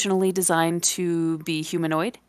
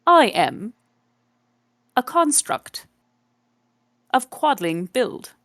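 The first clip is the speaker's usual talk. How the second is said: higher British automaton, pitched up on construct; robot voice; 6 semitones higher than usual. Acted. The automaton tells Paul what it is, in a robot voice. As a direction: recite it like a machine.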